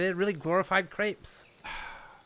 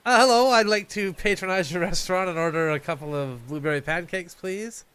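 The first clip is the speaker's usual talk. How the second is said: disguised customer voice. Acted. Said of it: "We cut to, like, a week later".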